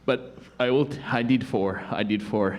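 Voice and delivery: halting, out-of-breath explanation; lightly hammed-up wheezy kid; asthmatic awkward student. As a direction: pause for air between phrases.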